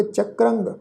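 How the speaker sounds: ਚੱਕਰੰਗ with half r and nasal ng; nasal ending. Shown as a demonstration. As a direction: nasalise the last syllable of ਚੱਕਰੰਗ. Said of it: "ਟਿੱਪੀ ਦੀ ਮਾਤਰਾ ਦਾ ਨਾਸਿਕ ਉਚਾਰਨ".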